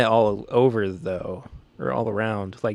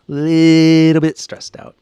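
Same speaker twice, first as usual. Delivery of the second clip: louder stressed repeat; 4 semitones higher, 8 dB louder, slower than usual. Real, not acted.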